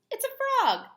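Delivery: high, loud thrilled announcement; teacher's big surprise; excited reveal. Acted.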